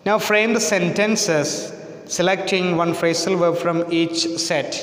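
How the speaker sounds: slow, deliberate reading of the task; slow, careful classroom reading voice; textbook instruction read. Acted. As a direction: read the exercise out slowly to the class. Reads textbook instruction aloud.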